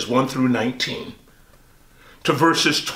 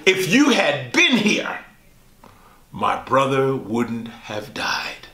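grieving plea; slower than usual. Acted. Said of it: "and says these words".

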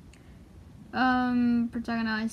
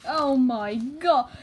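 louder, slow drawn-out amazement; stunned exclamation; 6 dB louder, slower than usual. Real, not acted. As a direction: let the shock stretch the words out. Stunned by a picture.

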